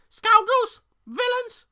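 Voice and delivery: high, loud squawking bird voice; indignant raven shrieking at pirates; shouting raven. A narrator's reading. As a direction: screech the insults like an outraged raven. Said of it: "he shouted".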